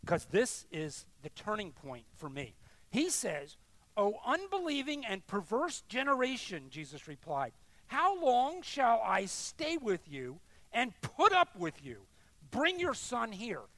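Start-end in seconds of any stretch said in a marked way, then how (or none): 4.0-6.7 raised voice reading out a rebuke; angry rebuke. Acted. Jesus rebuking an unbelieving generation, angry. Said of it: "He sounds angry, doesn't he?". 7.9-13.6 forceful, drawn-out exasperated question; angry rebuke. Acted. Jesus fed up with an unbelieving generation, angry. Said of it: "He sounds angry, doesn't he?".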